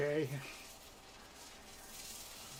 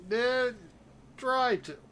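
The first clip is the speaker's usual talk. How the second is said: emphatic protest; 8 semitones higher, 6 dB louder, slower than usual. Real, not acted. Insists he did try.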